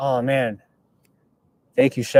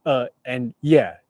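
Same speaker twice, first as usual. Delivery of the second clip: stammering Elon impression; slower than usual. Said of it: "He talks like that".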